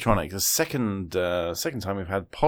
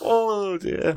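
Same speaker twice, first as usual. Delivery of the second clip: laughing; 10 semitones higher, 3 dB louder than usual. Real, not acted. Recovering from laughter.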